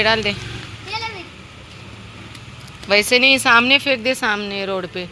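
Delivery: loud, high commands to drop the ball; loud calls telling the dog to drop the dirty ball; calling the dog. Real, not acted. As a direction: call out to make the dog let go.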